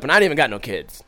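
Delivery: usual speaking voice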